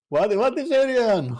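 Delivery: high, slow disbelieving question; incredulous. Real, not acted. Friend asking in high disbelief. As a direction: ask it like you can't believe it.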